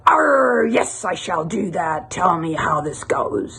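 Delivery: lightly voiced pirate with a growled Arr; a touch of pirate. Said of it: "And the pirate says".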